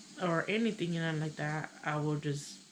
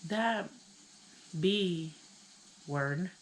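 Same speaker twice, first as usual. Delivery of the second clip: mad friend; much slower than usual. Retold or imitated. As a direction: imitate an angry friend, word by word. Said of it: "she got mad".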